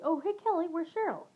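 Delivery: high, chirpy acquaintance's hello; bright greeting. Retold or imitated. Acquaintance cheerily greets Kelly at the march, bright. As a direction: ask it brightly, pitched well up. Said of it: "an acquaintance said brightly".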